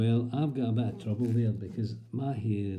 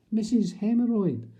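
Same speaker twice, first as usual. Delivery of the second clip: mock receptionist calling a patient; calling out the name; 7 semitones higher than usual. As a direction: call the name out across a waiting room.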